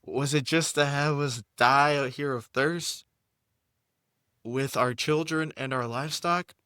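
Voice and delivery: high, grumbling crowd of Israelites; put-on people's voice. Reading Exodus aloud, voicing the thirsty people in a high put-on voice. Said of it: "I thought I was done speaking this way".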